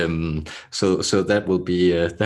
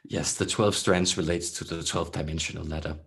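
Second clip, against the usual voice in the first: throaty channeled voice. Acted. Channeled beings answer Laura on twelve strands, throaty and measured. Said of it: "they speak in such a throaty".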